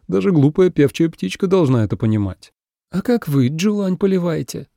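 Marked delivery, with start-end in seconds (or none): 2.9-4.7 higher, interested question; genuinely curious asking. A narrator's reading. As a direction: lean in with curiosity. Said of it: "не без интереса спросила Цзинь-цинь".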